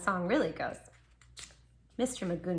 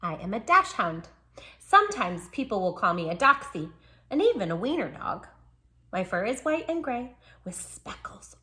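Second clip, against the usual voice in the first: lively picture-book read; bright storybook voice for the dog; reading to children. Acted. Storyteller reading a dog's diary to children, lively.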